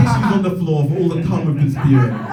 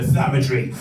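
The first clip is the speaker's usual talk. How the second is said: mock ad voiceover. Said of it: "the voice over".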